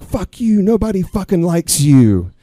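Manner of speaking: mock-hostile outburst at the teacher; foul-mouthed student. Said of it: "he starts just foul mouth".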